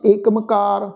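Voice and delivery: ਏਕਮਕਾਰ run together with an m; mispronunciation demo. Shown as a demonstration. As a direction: blend it into one word, ਏਕਮਕਾਰ. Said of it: "ਇਸ ਢੰਗ ਦੇ ਨਾਲ ਨਹੀਂ ਕਰਨਾ". (ਏਕਮਕਾਰ ਦਾ ਰਲਵਾਂ ਗਲਤ ਉਚਾਰਨ)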